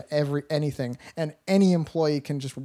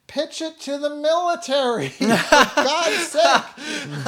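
exasperated outburst; 9 semitones higher, 5 dB louder, much slower than usual. Retold or imitated. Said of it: "and I'm like".

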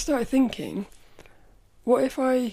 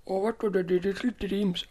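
hushed whisper to herself; half-whispered aside; whispered question. Real, not acted. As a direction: whisper it as if searching. Muttering while looking on website.

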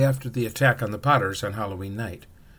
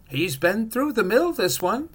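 high, slow, louder witch; tutting shopkeeper witch, much higher; 11 semitones higher, 4 dB louder, slower than usual. A narrator's reading. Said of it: "she said".

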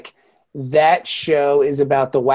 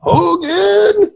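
high barked call of Hogan; military officer; 4 dB louder than usual. Pretend. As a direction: yell for the prisoner like Klink. Echoing the Klink shout.

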